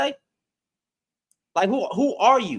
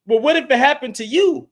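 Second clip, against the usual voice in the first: mock commenter voice; 6 semitones higher, 6 dB louder than usual. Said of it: "you can't scare me into".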